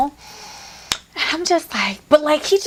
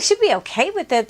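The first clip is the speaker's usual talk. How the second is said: higher, fast, echoing his words in disbelief; sarcastic parroting of a ridiculous excuse; incredulous mocking repeat; 4 semitones higher, faster than usual. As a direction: throw his line back at him, mocking. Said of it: "I was like".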